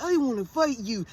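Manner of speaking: imitating a half-hearted challenger; mock meek kid's threat; timid challenge. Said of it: "Man, say it fucking louder".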